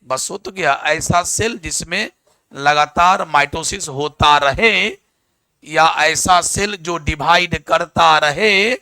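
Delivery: slow, deliberate dictation of the answer; patient teacher laying out the answer phrase by phrase; slow model answer. Shown as a demonstration. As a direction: spell the answer out slowly for the class. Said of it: "teacher models the full answer".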